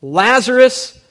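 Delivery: a high ringing shout across the tomb; Jesus cries out loudly to dead Lazarus; loud cry. Acted. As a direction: call Lazarus by name at full voice. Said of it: "cried out to Lazarus with a loud voice".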